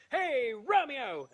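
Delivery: loud, drawn-out call. Acted. All Verona calls to Romeo, drawn-out holler. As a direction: holler it across a distance. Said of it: "calls out".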